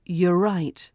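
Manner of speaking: "You're right" said with a flat falling end. Shown as a demonstration. Teacher showing the falling version. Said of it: "could sound like".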